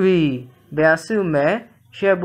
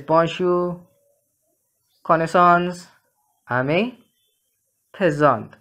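"bonjour, connaissance, ami, présent" each with slightly stronger final syllable; last-syllable stress. Shown as a demonstration. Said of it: "greater stress falling on the last syllable".

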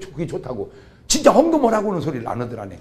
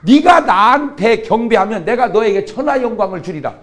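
devil's tempting offer; 4 semitones higher, 6 dB louder than usual. Retold or imitated. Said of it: "꼭 이러더라고".

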